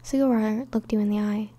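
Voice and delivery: story narration. Acted. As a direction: read the romance gently to the listener. Reads romance fan fiction aloud.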